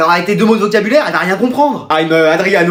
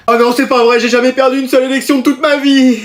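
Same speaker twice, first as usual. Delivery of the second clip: higher-pitched, aggrieved outburst; indignant protest; 4 semitones higher than usual. Acted. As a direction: protest as if cheated. Upset over losing the class vote.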